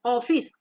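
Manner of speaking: second ऑफिस as "oh-fis"; ऑफिस with o as spelt; wrong closed o. Shown as a demonstration. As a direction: say ऑफिस with a pure long o. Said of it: "इसको हम ऑफिस नहीं पढ़ेंगे".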